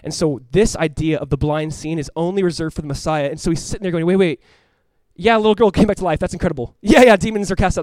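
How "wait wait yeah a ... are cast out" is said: astonished. Acted. Voicing blind man's astonished thoughts.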